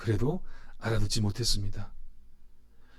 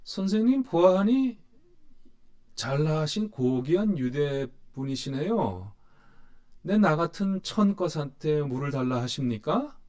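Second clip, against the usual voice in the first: mock Samaritan woman; 2 semitones higher than usual. Preacher acting out the Samaritan woman's jab at Jesus, lightly sarcastic. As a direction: play her bitter, mocking courtesy lightly. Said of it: "이걸 좀 한번 해볼까요?".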